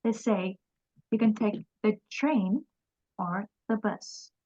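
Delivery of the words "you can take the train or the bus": train rises, bus falls; rising then falling tune. Shown as a demonstration. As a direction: lift on train, drop on bus. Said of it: "Mình lên giọng, mình xuống giọng".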